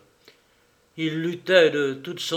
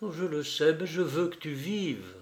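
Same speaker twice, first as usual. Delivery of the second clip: grave; 5 dB quieter than usual. Acted. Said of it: "répondit gravement".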